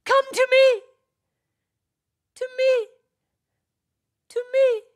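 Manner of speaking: very high, loud, ringing repeats; echoing cry. Acted. Echo echoing his call over the mountains, high ringing. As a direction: let it ring and repeat.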